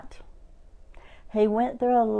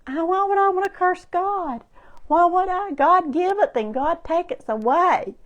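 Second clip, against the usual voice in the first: indignant Job; 8 semitones higher than usual. Retold or imitated. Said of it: "You talk like a foolish woman".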